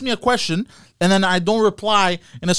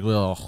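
weary groan; 9 semitones lower, 5 dB quieter than usual. Shown as a demonstration. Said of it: "I become like".

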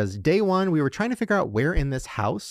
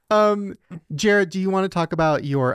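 trying not to laugh; 5 semitones higher, 3 dB louder than usual. Real, not acted. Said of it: "I can't look at you".

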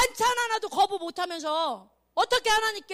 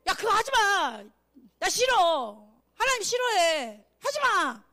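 acted firm refusal; 4 dB louder, slower than usual. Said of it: "친구한테도, 아이, 창피해도".

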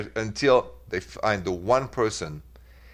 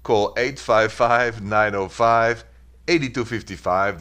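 the number read out slowly, digit by digit; careful, slowed radio number read; slow number dictation; slower than usual. Shown as a demonstration. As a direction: spell out the phone number slowly for callers. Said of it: "get to you calls".

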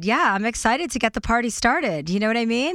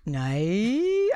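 attempted Australian "Nay". Shown as a demonstration. Host trying out a stand-up bit, Australian accent. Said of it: "trying to get that Australian nay".

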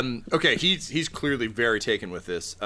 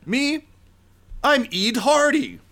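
high character voice; 14 semitones higher, 4 dB louder than usual. Acted.

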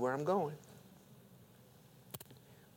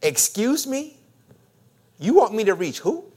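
high-pitched disbelief, rising sharply on "who"; incredulous reaction; 5 semitones higher, 5 dB louder than usual. Acted. Preacher acting out our reply to God, incredulous. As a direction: balk at the request with a lifted last word. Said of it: "Our typical initial reaction".

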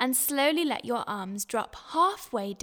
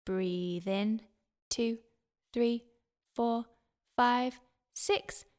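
slow counted breathing coach; 3 dB quieter, slower than usual. Shown as a demonstration. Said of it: "Let's have a go".

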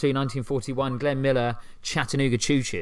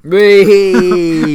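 excited; 6 semitones higher, 12 dB louder than usual. Acted. Excited squeal after quiz joke.

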